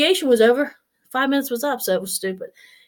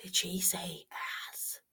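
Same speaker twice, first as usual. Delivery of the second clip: shocked murmur; 5 semitones lower, 21 dB quieter than usual. Retold or imitated. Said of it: "I was like".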